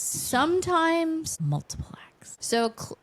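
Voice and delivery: coy whispered aside; whispering. Pretend. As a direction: whisper it like a naughty secret. Coy whisper about spicy scenes.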